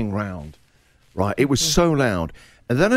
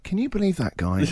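laughing disbelief; 7 semitones higher, 4 dB quieter than usual. Retold or imitated. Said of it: "And I'm like".

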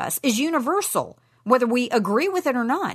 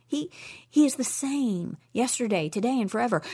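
ordinary delivery

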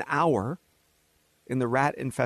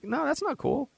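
Trump impression; 10 semitones higher than usual. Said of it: "he's like".

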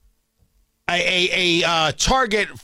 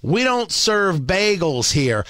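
mock Hoosier accent; 3 semitones lower than usual. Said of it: "assume that the people of Indiana speak with that accent, so I went with it".

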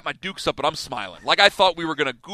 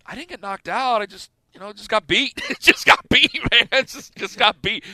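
laughing; 5 semitones higher than usual. Retold or imitated. Sheepish answer to parents.

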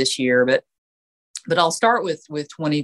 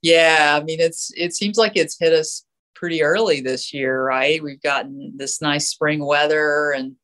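stuffy allergy nasal voice. Real, not acted. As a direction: talk through a blocked nose. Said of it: "folks will just have to overlook my nasal voice".

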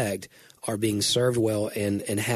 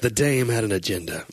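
noir detective. Pretend. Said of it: "like a fifties film noir detective".

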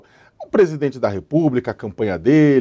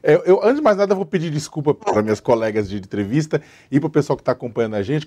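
scratchy throat after covid; talking through a frog in the throat; 4 semitones higher, faster than usual. Real, not acted. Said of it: "tô com um gato na garganta".

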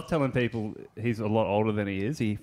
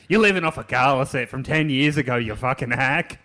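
mock scream; 2 semitones higher, 5 dB louder than usual. Retelling a drunk heckling a comic, mock screamed insult. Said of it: "you started screaming at him".

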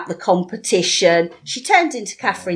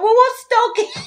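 naive question; 14 semitones higher than usual. Retold or imitated. Innocent question about dogging.

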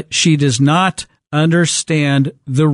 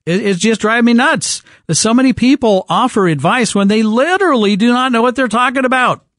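raised, heated rant; fired up; 6 semitones higher than usual. Real, not acted. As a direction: push it up, worked up. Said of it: "this has me fired up".

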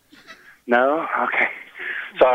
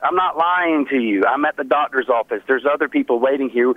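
nervous bad liar; 2 semitones higher than usual. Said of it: "Oh, yeah, you're lying".

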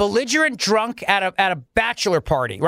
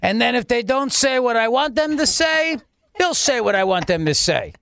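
a hint of a pompous governor showing off; mock Cuomo. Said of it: "now it's back to Don, Don Cuomo".

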